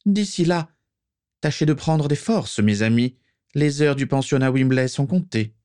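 high-pitched dark lord voice; Voldemort. A narrator's reading. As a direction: address the followers in a high, commanding voice. Voldemort dismisses his followers. (voix aiguë de chef maléfique)

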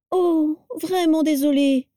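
slow, high fake apology stifling a laugh; holding back laughter. A narrator's reading. Vera apologising to Abraxas, stifling laughter. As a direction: apologise while barely holding in a giggle. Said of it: "en se retenant de rire".

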